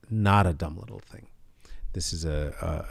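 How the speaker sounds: sincere low whisper. Real, not acted. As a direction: whisper it like a secret truth. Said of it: "in the most sincere, uh, fashion".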